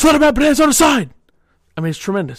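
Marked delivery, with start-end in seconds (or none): 0.0-1.1 very high, loud shouted outburst. Recounting a favorite TV line, acting out the yell. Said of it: "I don't know how bad my mic sounded when I yelled like that".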